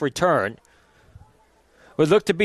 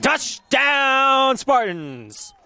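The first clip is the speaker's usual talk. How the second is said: building to a shouted touchdown; touchdown call; 6 semitones higher than usual. Real, not acted. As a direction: yell it home as he breaks free. Touchdown run called live.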